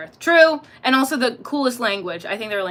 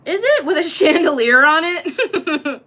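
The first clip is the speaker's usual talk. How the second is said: mock disbelief; 7 semitones higher, 8 dB louder than usual. Real, not acted. Mocking the masculine fan claim.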